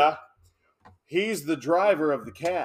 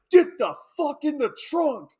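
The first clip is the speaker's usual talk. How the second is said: raised, high-pitched gunman's command; rough mock order; 9 semitones higher, 4 dB louder than usual. Retelling the gunman forcing the victim in, rough mock order. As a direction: order him about roughly, acted. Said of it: "he's being rough as shit".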